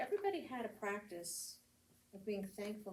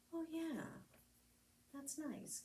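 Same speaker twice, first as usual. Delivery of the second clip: pleased realization; 8 semitones higher, 4 dB quieter, slower than usual. Acted.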